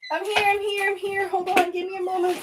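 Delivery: high, held-pitch reassurance; hurried high-pitched call to hang on. Real, not acted. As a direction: call out in one high, even run. Calling to viewers while fixing setup.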